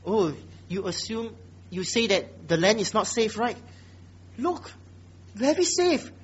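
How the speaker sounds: sarcastic permission with rising pitch. Acted. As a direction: play the king's sarcastic offer. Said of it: "very sarcastic".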